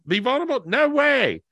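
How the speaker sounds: high, loud mock refusal; incredulous high squeak of refusal; scoffing disbelief. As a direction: scoff at the very idea. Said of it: "it told me to be vulnerable".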